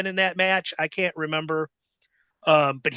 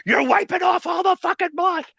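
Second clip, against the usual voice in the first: higher, louder mock yell at the end; retold yelling Bull; 7 semitones higher, 3 dB louder than usual. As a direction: bark it like an angry partner. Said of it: "And Bull's going".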